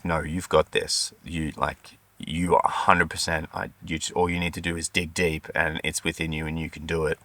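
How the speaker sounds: soft encouragement. Retold or imitated. Husband murmuring encouragement to his wife in labour, soft. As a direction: coax her gently, close and quiet. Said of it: "I would just whisper back".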